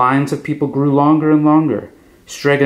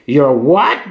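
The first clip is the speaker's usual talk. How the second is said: shocked outburst; 3 semitones higher, 3 dB louder than usual. A narrator's reading. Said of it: "Bambolona screamed".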